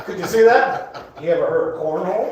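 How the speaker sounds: Bigfoot with a southern twang; southern accent. Acted. Bigfoot chatting to a camper, southern accent. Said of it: "gave the Bigfoot a southern accent".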